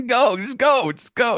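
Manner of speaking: high-pitched imitation of shooing; mock urging. Acts out woman shooing the snail.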